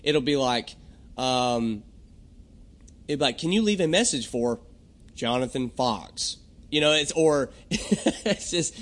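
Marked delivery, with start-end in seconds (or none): 3.4-6.4 polished recorded greeting. Retold or imitated. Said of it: "sound just right".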